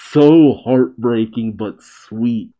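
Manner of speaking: slow, moved and heartfelt; heartbroken. Real, not acted. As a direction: let the sadness slow it down. Moved reaction, slowed.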